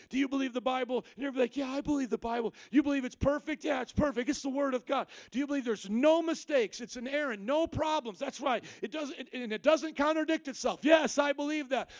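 acted back-and-forth with a critic.

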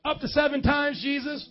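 high-pitched questioning of Jesus; mock incredulous question. Preacher replaying Peter trying to get off the hook, mock incredulous. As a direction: push the question up high, as if angling.

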